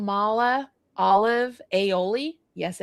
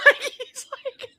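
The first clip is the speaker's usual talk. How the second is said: ordinary delivery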